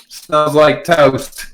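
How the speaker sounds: slow, drawn-out tough quip; tough girl. Retold or imitated. Host quotes the tough girl's line, slow and tough. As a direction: drag it out, acting tough. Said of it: "the girl who's very tough".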